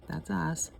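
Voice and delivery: breathy hushed tag-on; whispered aside. Real, not acted. Admitting they are the idiots, whispered. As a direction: drop to a whisper for the punchline.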